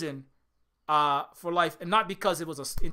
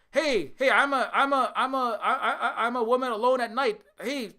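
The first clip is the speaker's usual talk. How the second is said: mock cheerful call-out; 3 semitones higher than usual. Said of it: "You know, or".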